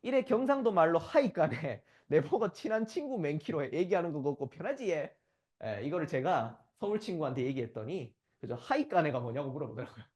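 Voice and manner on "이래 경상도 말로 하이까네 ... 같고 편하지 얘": 경상도 사투리로 신나게; gleeful Gyeongsang dialect. Retold or imitated. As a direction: relish the Gyeongsang punchline. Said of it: "이 세 번째 문장이 압권".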